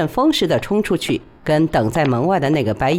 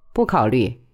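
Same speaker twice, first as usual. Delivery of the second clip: calm; 5 semitones lower than usual. A narrator's reading. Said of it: "他平静地说".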